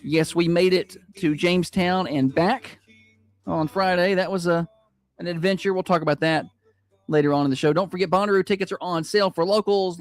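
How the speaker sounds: upbeat morning-show welcome sliding into a promo read; radio host announcing. Real, not acted. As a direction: open the show and pitch to the listeners. Opens radio show, reads promo.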